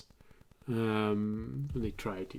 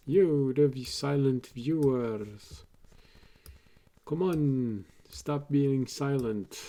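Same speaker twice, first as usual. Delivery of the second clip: louder, teasing prod; playful callout; 2 semitones higher, 3 dB louder than usual. Real, not acted. Streamer prodding silent viewers, playful callout. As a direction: coax them loudly to speak up.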